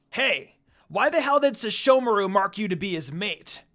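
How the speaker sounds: jealous outburst at his brother's mark; angry complaint. A narrator's reading. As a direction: demand an answer, offended. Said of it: "Inuyasha complained".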